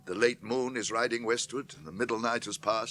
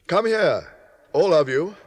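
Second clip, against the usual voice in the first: calling; 4 semitones higher, 8 dB louder than usual. Acted. Gandalf summons company to chamber.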